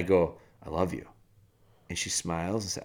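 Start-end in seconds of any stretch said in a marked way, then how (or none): 0.6-1.1 low, soft and tender; retold gentle reassurance to a small child; softened up. Dad to his daughter after being firm, softened and tender. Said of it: "And I soften up".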